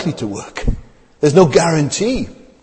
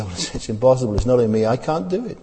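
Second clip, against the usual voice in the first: resigned confession; 3 semitones lower, 3 dB quieter than usual. Retold or imitated. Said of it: "our attitude tonight would say".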